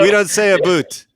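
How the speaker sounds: laughing objection, punched up; amused, emphatic denial; mock protest. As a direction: protest the Canadian stereotype in fun. Mock protest repeated over laughter.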